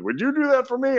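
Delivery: high, incredulous, touched question; touched disbelief. Retold or imitated. Limo boss offered signed CDs for his son, touched disbelief. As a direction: ask it like you can't believe the kindness.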